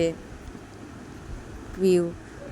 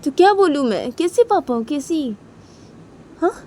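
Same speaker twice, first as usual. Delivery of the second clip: angry retort; 5 semitones higher, 5 dB louder than usual. Acted. Father shouts back.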